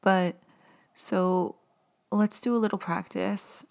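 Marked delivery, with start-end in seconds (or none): 0.0-2.4 choked up, voice catching; holding back tears while talking. Real, not acted. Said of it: "getting choked up".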